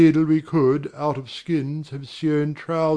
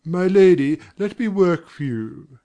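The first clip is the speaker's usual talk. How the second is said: welling affection. Acted. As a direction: offer yourself out of devotion. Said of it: "affection for these great ones wells up".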